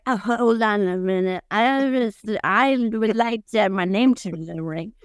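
slow, lightly put-on pompous voice; a hint of a self-important politician; mock Ronnie Jackson. Mocking Ronnie Jackson entering the race, slow pompous voice. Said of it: "Ronnie Jackson's like".

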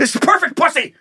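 high, hammed-up wail; mock lament. Host imitating a fisherman's hammed-up high lament. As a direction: cry it like a man robbed of his luck. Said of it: "imitating the angry fisherman".

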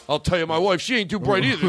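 high, punchy put-on stand-up comic; Rodney. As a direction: gripe about the family like an old-school joke teller. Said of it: "It's the guy who's Rodney".

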